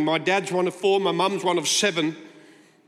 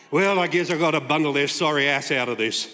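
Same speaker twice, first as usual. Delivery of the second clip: lower, reluctant grumble; lower, grudging tone of reluctant duty; grudging mutter; 4 semitones lower than usual. Pretend. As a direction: sigh it out as a bored obligation. Mocking grudging God.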